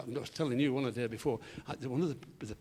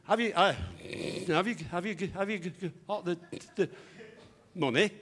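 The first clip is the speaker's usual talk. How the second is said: stammering; 3 semitones higher than usual. Acted. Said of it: "Freddie stammered a bit".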